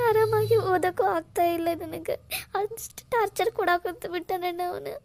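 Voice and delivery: tearful, words through sobs; telling him while breaking into tears; crying. Acted. Sister tells her brother about the stalker, tearfully. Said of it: "Kaveri, ಅಳ್ಬೇಡಮ್ಮ".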